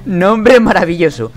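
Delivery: slow, deadpan and proud; dry mock pride; mock solemn. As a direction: say it straight as if it were brilliant.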